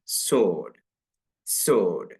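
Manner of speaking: സോഡ് said sord, w dropped; silent w. Shown as a demonstration. Teacher repeating the model for students, സോഡ് with no w. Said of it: "W ഇല്ലാതെ വായിച്ചു നോക്കൂ".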